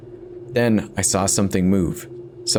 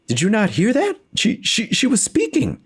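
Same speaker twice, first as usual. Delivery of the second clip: panicked pleading; 14 semitones higher than usual. Acted. Husband panics, shows phone to wife.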